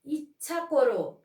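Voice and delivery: ইচ্ছা করো slowly, the first ই hit high and loud; stress on ইচ্ছা. Shown as a demonstration. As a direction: punch the opening ই of ইচ্ছা. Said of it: "হ্রস্বইর উপরে আবার ঝোঁক পড়েছে".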